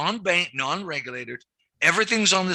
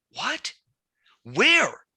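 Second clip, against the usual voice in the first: mock shocked question; 9 semitones higher than usual. Retelling colleagues' reaction to the Amazon job, mock shocked. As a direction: imitate the bankers' stunned outburst.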